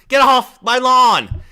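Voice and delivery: slow, drawn-out grumpy yell; slow shouting at trespasser. Pretend. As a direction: stretch the yell out slowly. Repeated lawn yell, slower take.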